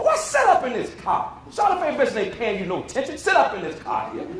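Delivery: high-pitched scolding, easing down; lightly acted telling-off of a child; scolding elder.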